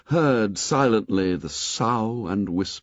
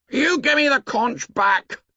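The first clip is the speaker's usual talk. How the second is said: demanding shout; 3 dB louder than usual. A narrator's reading. Tussle over the conch.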